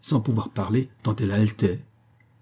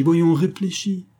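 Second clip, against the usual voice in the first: voyons, réfléchis drawn out slow, much higher and louder; insistent plea; 9 semitones higher, 4 dB louder, slower than usual. A narrator's reading. Lover begging his mistress to think, slow and much higher. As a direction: push the word voyons, begging her to think. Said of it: "Il balbutia".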